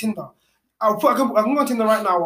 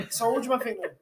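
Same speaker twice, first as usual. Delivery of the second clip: laughing; 2 semitones higher, 6 dB quieter than usual. Real, not acted. Laughing at alien joke.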